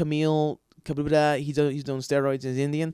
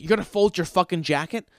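incredulous improv line; 5 semitones higher, 5 dB louder than usual. Retold or imitated. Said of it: "I said something to the effect of".

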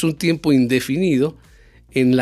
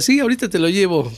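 quick, higher, airy "sure, later"; brushing someone off; 6 semitones higher, faster than usual. Retold or imitated. A reply that strings the asker along, quick and airy. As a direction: fob them off with a breezy promise. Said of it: "dándote avión".

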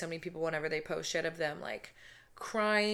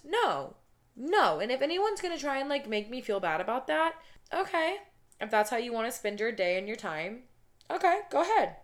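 defiant sass; 4 semitones higher than usual. Real, not acted. Defiant to critics.

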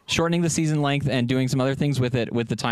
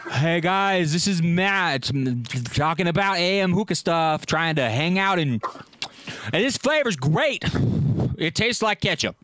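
mock cohost impression; slower than usual. Matt mocking Adrian's hookah intro, hammed-up impression. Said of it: "That's an awful impression of me".

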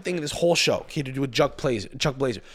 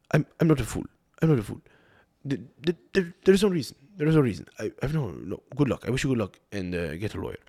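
light Trinidadian accent impression of Jack Warner; Trini accent; 3 semitones lower, faster than usual. Imitating Jack Warner's Trini accent dismissing interviewers. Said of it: "Jack Warner, he talked like this".

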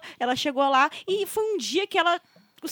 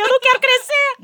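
higher-pitched, hammed-up protest; childish refusal; 7 semitones higher, 4 dB louder than usual. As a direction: refuse like a stubborn kid, voice pushed up. Acts out her childhood refusal.

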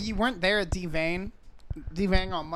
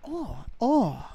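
East Asian accent warm-up; 4 semitones higher than usual. Shown as a demonstration. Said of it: "That's how I get into my Asian accent".

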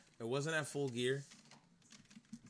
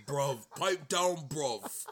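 Ospreay gruff voice; 3 dB louder, much slower than usual. Retold or imitated. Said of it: "like a bulldog barking".

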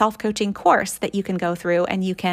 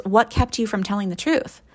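gentle question. Shown as a demonstration. Parent gently asking a child what held them back. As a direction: invite the truth instead of blaming. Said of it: "think about the difference in how that feels".

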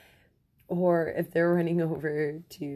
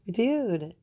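laughing whisper; 5 semitones higher, 3 dB louder than usual. Real, not acted.

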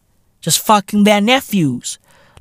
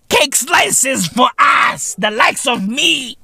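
mock plea; 6 semitones higher, slower than usual.

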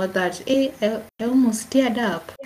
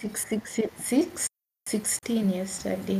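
whisper; 7 dB quieter, slower than usual. Real, not acted. Whispering the count.

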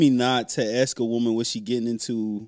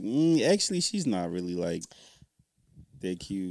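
quiet aside; 7 semitones lower, 8 dB quieter than usual. Retold or imitated. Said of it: "I'll be like".

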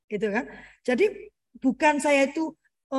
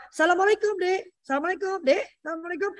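parent's farewell greeting; 5 semitones higher than usual. Shown as a demonstration. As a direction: lilt it to a little child. Models greeting to child, fading.

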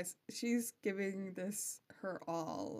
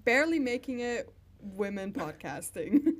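mock announcer; 2 semitones higher, 7 dB louder than usual. Mock rebrand slogan.

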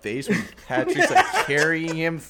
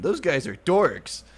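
put-on little kid voice; 5 semitones higher, 4 dB louder, much slower than usual. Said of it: "when the little kid tells".

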